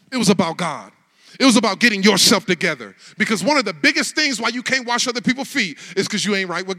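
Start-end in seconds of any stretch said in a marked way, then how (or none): 0.1-4.6 rising into a loud preached cry; loud building sermon cry; building preacher's shout. Acted. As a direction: preach it hard, louder and louder. Preacher rising to full force.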